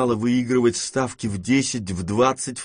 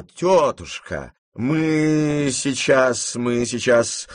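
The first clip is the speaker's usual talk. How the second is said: very slow, drawn-out faltering plea; trembling, failing voice; much slower than usual. A narrator's reading. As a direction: falter and let the voice sink. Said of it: "голос у него дрожал и падал". (дрожащим, падающим голосом, медленно)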